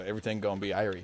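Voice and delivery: quick mock Jamaican lilt, "Irie" as EYE-ree; stereotypical Jamaican accent. Shown as a demonstration. Showing how outsiders imitate Caribbean speech, stereotypical Jamaican accent. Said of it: "stereotypical pronunciation for Jamaican all right".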